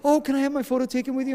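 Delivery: very high, gushing mock fangirl; imitated fan frenzy. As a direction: play a shaking, starstruck fan. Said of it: "She goes mental".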